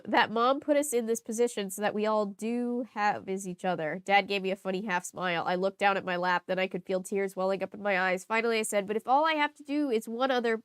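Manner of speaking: steady reading-aloud voice; story narration. Acted. Reader narrating the diary, steady read-aloud voice. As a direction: read the diary entry evenly.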